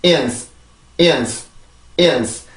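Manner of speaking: "이은스" short, weak schwa, hissed final s; backward build-up drill. Shown as a demonstration. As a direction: join "이" and "은스" into a compact falling "이은스". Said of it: "다시 한번". (뒤에서부터 이어 붙이는 "이은스")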